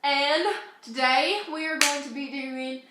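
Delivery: put-on a light, slowed British accent. Vlogger opens the video in a mild British accent. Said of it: "I haven't done this accent in forever".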